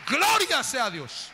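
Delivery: high, ringing cry of praise; exultant praise. Real, not acted. Preacher declares forgiveness and glorifies God, exultant. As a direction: proclaim it high, stretching the praise.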